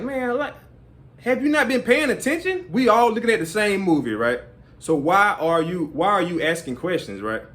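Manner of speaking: high, exasperated retort; annoyed. Retold or imitated. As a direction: scold the one asking questions. Annoyed reply to the questioner.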